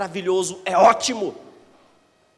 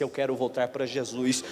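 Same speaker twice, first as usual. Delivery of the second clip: retold desperate plea; 9 semitones higher, 11 dB louder than usual. Boy at the pastor's door begging to return, rising to a loud desperate cry. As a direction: beg to come back, rising to a shout. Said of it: "chorando e disse".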